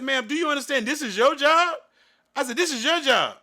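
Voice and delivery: hammering the point that it's her job, loudly; retold angry shout.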